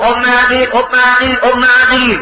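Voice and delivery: acted call to someone inside a tent. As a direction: hail her from outside. Rider calls at tent.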